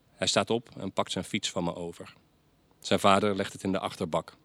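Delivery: plain reading voice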